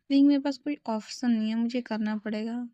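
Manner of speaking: a hint of unhinged resolve; psycho way. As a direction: captor to bound friend, mildly psycho. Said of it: "थोड़ा psycho वे में बोलता है".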